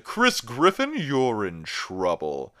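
loud high name, dropping to a slow verdict; mock scolding teacher. Teacher busting Chris with the bottle, loud mock scolding. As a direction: call him out loudly, then drag out the verdict.

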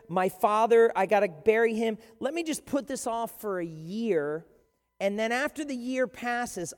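loud breezy excuse-making; stalling excuse. Acted. Man putting Jesus off, breezy and loud. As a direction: brush him off casually.

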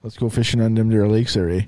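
hammed-up Minnesotan accent. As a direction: imitate a Minnesotan angler's folksy accent. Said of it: "much of a Minnesotan accent".

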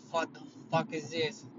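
retold stunned whisper, breathy and hushed; whispered shock. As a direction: breathe it out like you can't believe your eyes. Retold shock at morgue tools.

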